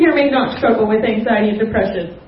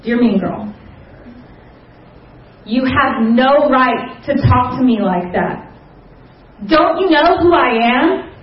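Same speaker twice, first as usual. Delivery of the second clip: defiant letter read aloud; 3 semitones higher than usual. Retold or imitated. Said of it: "kinda went something like this".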